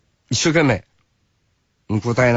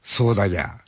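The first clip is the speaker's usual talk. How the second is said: Nagoya dialect; 3 semitones lower, 4 dB quieter than usual. Retold or imitated. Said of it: "なあ、名古屋。".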